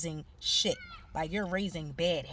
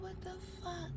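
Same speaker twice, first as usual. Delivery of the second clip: shocked; 12 semitones higher, 12 dB quieter than usual. Retold or imitated. Spots her ex in club.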